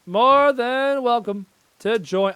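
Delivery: high, loud, long-drawn British lady; British woman impression. Inviting the enemy to join, drawn-out British woman. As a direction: stretch it out as a mock British woman. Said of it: "talk like one of those British women".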